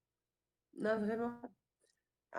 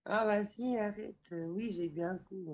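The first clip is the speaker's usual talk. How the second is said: tipsy. Real, not acted. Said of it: "ça se voit que t'es pompette".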